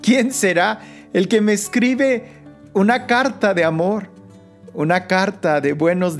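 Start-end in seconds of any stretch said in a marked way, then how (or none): none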